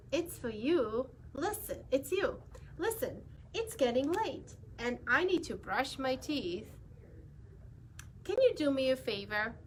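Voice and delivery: lightly voiced cheeky pigeon, pleading bedtime; a hint of a bird bargaining to stay up. Pigeon character voice.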